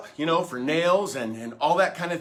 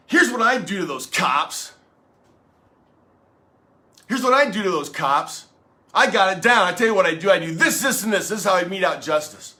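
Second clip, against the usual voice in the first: fired-up vigilante; 2 semitones higher, 3 dB louder than usual. Acted. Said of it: "everybody's getting all fired up".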